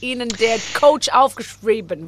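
loud put-on American-accented German. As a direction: talk like an American musical singer. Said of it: "amerikanischen Akzent dieser Sänger". (amerikanischer Akzent im Deutschen)

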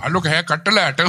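high put-on caller voice; imagined pizza caller. Pizza man phoning the customer, high mock caller voice. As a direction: call out the surname in a silly high voice. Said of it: "wenn er gesagt hätte, so".

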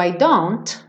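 I don't ending with no final T; odd without T. Shown as a demonstration. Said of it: "fica meio estranho falar no, I don't".

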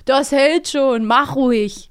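a light imitation of a carefree girl; playful mock Bibi, only lightly voiced. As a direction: tease your friend with a careless reassurance. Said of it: "Das sag ich dir jetzt auch nächstes Mal".

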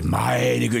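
ordinary delivery

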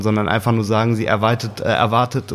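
ordinary talk

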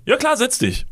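squeaky bright "Ja klar, setz dich" far above his own voice; high polite yes. Retold or imitated. Pitched high, politely inviting the stranger to sit. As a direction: fake-friendly chirp. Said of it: "Mein Mund hat hingegen gesagt".

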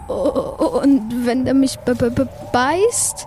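stuttering, slowing on the last word; stammering fear. Acted. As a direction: trip over the word in fright. Afraid of the dragon biting.

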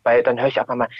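ordinary delivery

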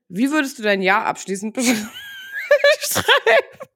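breaking into laughter mid-question; laughing. Real, not acted. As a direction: giggle through the question. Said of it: "warum lachst du jetzt?".

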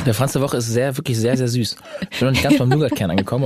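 talking with a mouthful of pastry; mouth full. Real, not acted. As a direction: speak around a bite of food. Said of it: "nicht so mit vollem Mund".

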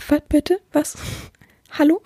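imitating a taken-aback wife; short, incredulous mock questions; mock disbelief. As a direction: act mildly stunned and incredulous. Acting a wife's shocked reaction.

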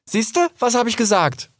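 high, triumphant told-you-so; gleeful I-told-you-so; triumphant call. Acted. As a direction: crow over being right. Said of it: "rief Rix".

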